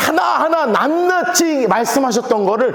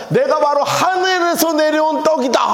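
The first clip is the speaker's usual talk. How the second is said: higher-pitched proclamation, last word stretched; bold blunt declaration; 4 semitones higher than usual. Acted. Jesus answering the crowd asking for bread, bold declaration. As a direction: throw it out boldly. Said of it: "이렇게 그냥 훅 하고 던져버린 거예요".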